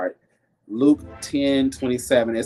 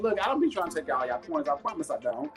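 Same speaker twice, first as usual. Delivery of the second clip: laughing apology; 4 semitones higher, 5 dB quieter than usual. Real, not acted. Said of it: "I'm sorry, y'all".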